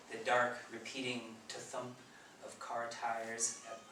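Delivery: measured poem reading with line-end pauses; poetry reading. Acted. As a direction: read it slowly, phrase by phrase. Reads own poem aloud.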